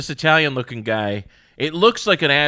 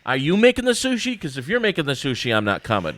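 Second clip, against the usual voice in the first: high, mocking doubt; suspicious customer; 4 semitones higher than usual. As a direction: question the chef with distrust. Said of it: "and it's like".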